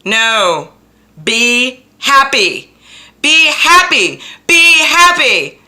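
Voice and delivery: high, loud, slow drawn-out cheer; cheering herself on. Retold or imitated. To herself each painful morning, a loud high slow cheer. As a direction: sing it out big and bright. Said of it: "and I say".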